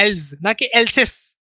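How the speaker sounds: एल्स said with a z, then else's with a slow hiss; els, not else's. Shown as a demonstration. Teacher contrasting els with else's for students. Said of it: "एल्स बोलते हैं हम".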